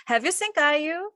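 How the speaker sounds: "Have you seen 까유" drawn out slowly with a rise; slow, careful demo; slow model sentence. Shown as a demonstration. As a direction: contrast it with the past tense. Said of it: "이 두 문장의 차이가 뭘까".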